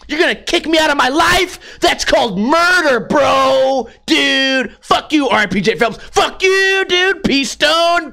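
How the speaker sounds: put-on high, bratty skater kid ranting and swearing; a punk kid yelling he won't leave, then cracking; whiny teen skater. Skater kid ranting at a library guard, high and whiny.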